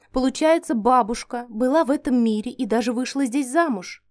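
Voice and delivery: usual speaking voice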